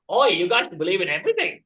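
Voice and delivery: put-on lightly Australian-accented Scotsman; a hint of hammed-up Australian; botched Scotsman coming out Australian; accidental Australian accent. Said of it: "Why did I make that Australian?".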